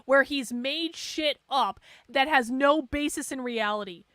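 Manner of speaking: mocking, exasperated agreement; sarcastic echo. Real, not acted. Streamer mocking James's claim, sarcastically exasperated. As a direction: throw the claim back with heavy sarcasm.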